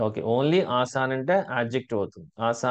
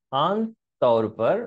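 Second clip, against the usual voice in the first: slow demo; slower than usual. Shown as a demonstration. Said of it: "నాతో పాటు చెప్తే మీకు ఆ ప్రొనౌన్సియేషన్ వస్తది".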